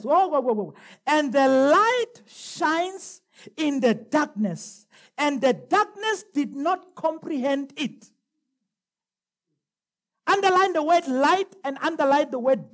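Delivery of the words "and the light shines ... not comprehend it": slow, deliberate verse reading; measured preacher reading aloud; scripture reading. Real, not acted. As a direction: read it out slowly to the congregation. Reads scripture to the congregation.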